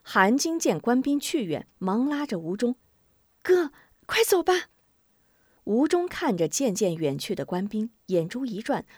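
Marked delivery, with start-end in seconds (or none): 3.4-4.6 put-on little girl. Little girl urges brother.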